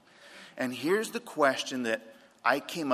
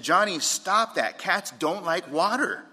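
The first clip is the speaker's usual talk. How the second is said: raised, high-pitched scolding call; mother yelling; 5 semitones higher, 3 dB louder than usual. Retold or imitated. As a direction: imitate a mom calling out to stop her son. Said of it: "She yelled out to him".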